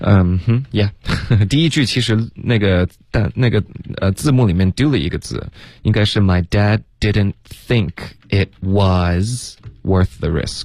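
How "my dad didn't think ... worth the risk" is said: slow, deliberate, carefully spelled-out delivery.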